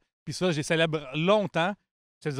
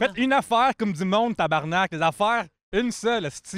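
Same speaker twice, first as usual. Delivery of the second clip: louder, higher, fed up; exasperated demand; 4 semitones higher, 3 dB louder than usual. Acted. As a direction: demand it like you've had enough. Repeats demand with swearing.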